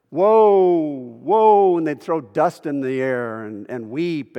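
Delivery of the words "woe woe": loud, high, drawn-out wail of woe; funeral dirge. Acted. Preacher acting out mourners at a funeral, loud dirge wail. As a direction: cry it out long, imitating mourners. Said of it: "woe is an Old Testament funeral dirge".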